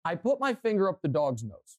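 retold offhand kid's confession; nonchalant. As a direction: admit it casually, like it's nothing. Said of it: "just kind of nonchalantly".

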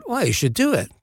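hammy Cockney advice; mock-Cockney encouragement; Michael Caine. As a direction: urge it in a rough London star impression. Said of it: "This is a terrible Michael Caine impression".

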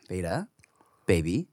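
patient, hushed parental voice; calm dad. Retold or imitated. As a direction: reason gently with a small child, keeping it low. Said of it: "we can't be calm daddy anymore".

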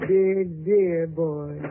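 put-on slow drawn-out dear, dear boy. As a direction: stretch each dear out very slowly. Stella teasing Slade.

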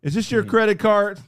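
mock white clerk voice. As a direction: imitate a suspicious white clerk. Imitating white shopkeeper.

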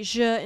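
"je" said with a zh consonant; Argentine je sound. Shown as a demonstration. Explaining Argentine double L, je as zhuh. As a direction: say "je" as zhuh, not yuh. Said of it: "instead of the y sound".

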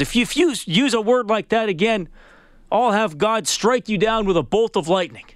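getting mad. Retold or imitated. Pastor threatening golfer with divine punishment, mildly angry. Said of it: "now getting mad at this guy".

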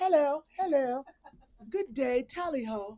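stock English greeting accent; a hammy attempt at an English accent. Shown as a demonstration. Co-host showing off their best English accent on request, English accent. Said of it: "do your best English accent".

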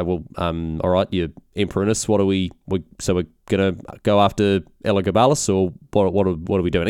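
hesitant, faltering imitation of underlings; confused advisors. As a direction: lightly act out puzzled advisors, tentative and subdued. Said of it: "all of his rather confused advisors".

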